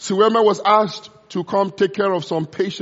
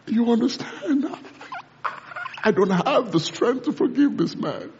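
tearful prayer. Retold or imitated. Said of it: "she began to cry".

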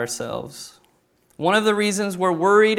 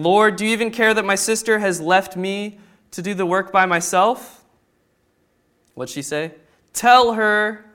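mild complaint; 3 semitones higher than usual. Acted. Martha complaining to Jesus.

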